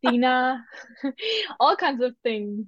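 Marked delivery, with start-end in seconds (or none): 0.0-0.6 "Sina" as "SEE-nah"; mispronounced name. Shown as a demonstration. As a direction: misread the name ending in "ah". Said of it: "what names have you been called".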